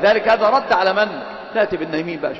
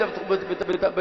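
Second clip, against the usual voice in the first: mock trembling stammer; 6 dB quieter, slower than usual. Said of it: "وأنت مرتجف".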